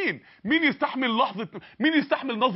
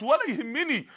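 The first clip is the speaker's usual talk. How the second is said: ordinary talk, nothing marked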